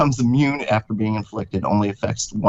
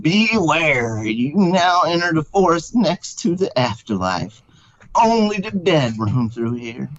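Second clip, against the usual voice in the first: a hint of an eerie old man; slow, spooky warning; 5 semitones higher, slower than usual. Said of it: "an old man in haggard clothes".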